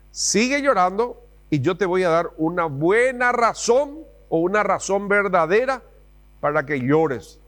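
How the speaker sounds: a hint of a stern mother; threatening mom. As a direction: menace like an angry mother. Mom's threat repeated.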